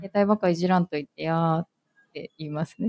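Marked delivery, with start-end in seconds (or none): 0.0-1.7 put-on mild Hiroshima-dialect complaint to a boyfriend. Shown as a demonstration. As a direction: show how you'd gently scold in Hiroshima dialect. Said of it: "広島弁って。". (広島弁で彼氏に軽く文句)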